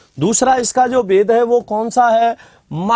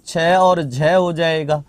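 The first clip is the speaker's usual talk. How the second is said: slow and lower, repeated for note taking; slow dictation; 5 semitones lower, slower than usual. Shown as a demonstration. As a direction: say छ और झ हो जाएगा slowly so they can write it. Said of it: "repeated for dictation". (धीमे से दोहराते हुए)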